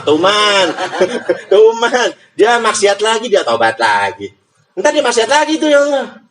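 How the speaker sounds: hammed-up fed-up angel; mock exasperation. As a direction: tattle on the sinner, fed up. Angel mocks repeat sinner.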